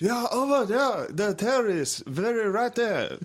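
high, put-on accent voice; mock Asian accent. Imitating Asian kid.

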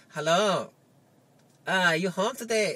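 badly faked Asian accent; hammed-up Asian-accented caller at the door; poor Asian accent impersonation. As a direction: put on a clumsy Asian accent. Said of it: "Asian guy saying".

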